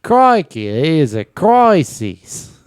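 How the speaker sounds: high, loud, broad Australian exclamation; Australian accent. Acted. Australian announcing a crisis, hammed-up Australian accent. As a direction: cry it out in a hammed-up Aussie accent. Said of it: "my impression of an Australian person".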